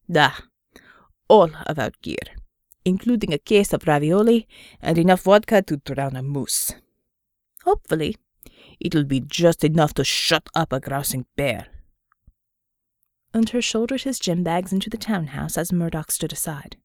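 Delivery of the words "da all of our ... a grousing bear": low gruff voice. Acted. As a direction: drag it out, low and tired. Unter answers Murdoch.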